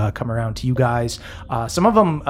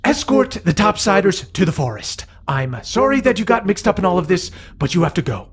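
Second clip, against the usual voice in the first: dragon queen voice; 5 semitones higher, faster than usual. Acted. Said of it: "And she goes".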